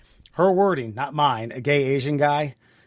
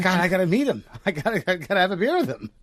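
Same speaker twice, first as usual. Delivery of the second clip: higher-pitched, giddy insistence; retold eagerness; 5 semitones higher, faster than usual. Host retelling wanting to meet cousin's friend, eager insistence. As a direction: gush as if you can hardly wait.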